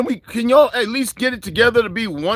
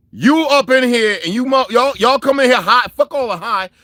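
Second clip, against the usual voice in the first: higher, louder scolding of the viewers; angry scolding; 5 semitones higher, 4 dB louder than usual. Real, not acted. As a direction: tell them off, fed up.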